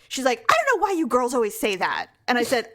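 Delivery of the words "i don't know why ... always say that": quick, mildly irritated retort; imitating pissed-off mom. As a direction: mimic a mother's testy comeback. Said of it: "she got pissed".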